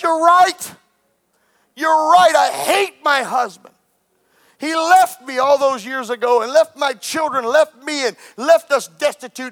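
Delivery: imitated anguished outburst, loud at first; high, impassioned retelling of tearful hurt; weeping confession. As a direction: cry out as the wronged wife, without real sobs. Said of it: "began to weep and cry".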